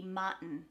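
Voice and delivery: MARTIN with the T swallowed into the n; dropped T. Shown as a demonstration. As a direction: say MARTIN as mah'n, no released T. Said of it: "if you don't pronounce that T".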